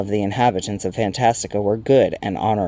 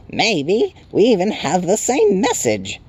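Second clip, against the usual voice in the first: very high, slow little creature; chirping Tiny; 10 semitones higher, 3 dB louder, slower than usual. A narrator's reading. Tiny creature addressing the newcomer, high chirp. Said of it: "and chirped".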